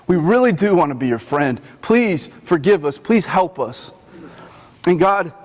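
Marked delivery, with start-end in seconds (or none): 0.1-1.6 lower, softer repeat of the plea; soft pleading. Retold or imitated. Moses to God, a quieter second plea. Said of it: "Moses begins to plead with God". 1.8-3.9 gentle pleading. Retold or imitated. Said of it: "plead with God".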